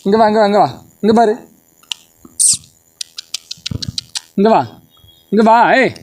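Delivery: high sing-song coaxing. Real, not acted. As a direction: sweetly coax the dog closer. Coaxing dog Jimmy home.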